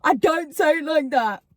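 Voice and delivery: mock-offended objection; retold defensive protest. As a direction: mimic someone protesting defensively. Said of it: "Every time I point".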